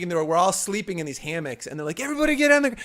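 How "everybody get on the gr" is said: retold yell. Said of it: "and he's yelling".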